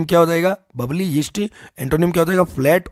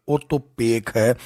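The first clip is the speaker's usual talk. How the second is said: Marwari; 3 semitones lower, much slower than usual. Shown as a demonstration. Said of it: "Marwari में कहें तो".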